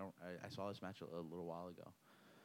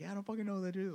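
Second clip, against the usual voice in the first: imitating exasperated opponent; 12 semitones higher, much faster than usual. Retold opponent repeating denial.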